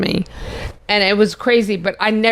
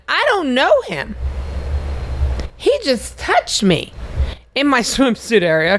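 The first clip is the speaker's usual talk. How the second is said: mock panicked plea; 4 semitones higher than usual. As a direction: play it as a flustered woman blurting out her story, voice pitched high. Retelling her own panicked plea.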